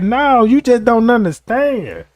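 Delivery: acted earnest protest; protesting innocence. Pleading with judge, acted.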